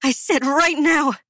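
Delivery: high, sharp insistent order; stern command. Acted. Queen repeats her order to the girl, high stern shout. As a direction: put your foot down, now.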